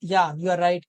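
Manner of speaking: lightly acted pondering hum, then agreeing; a low, mildly thoughtful "hmm" before conceding; thinking aloud. Teacher showing students how we stall while thinking, lightly acted pondering. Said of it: "सोचने लगे तो कहते हैं".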